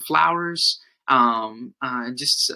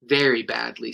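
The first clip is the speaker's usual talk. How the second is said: cartoon princess; 3 semitones lower, 3 dB louder, slower than usual. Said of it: "said the princess".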